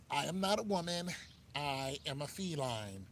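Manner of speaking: solemn proclamation, played for laughs; mock declaration. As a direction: imitate someone grandly announcing an identity. Mocking people who identify as animals.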